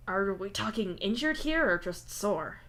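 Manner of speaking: slow, unsure question; uncertain. Acted. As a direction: ask hesitantly. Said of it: "you ask uncertainly".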